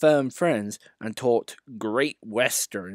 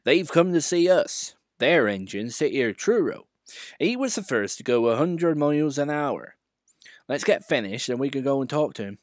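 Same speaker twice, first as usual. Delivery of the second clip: engine driver voice; 4 semitones higher than usual. Acted. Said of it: "his driver explained".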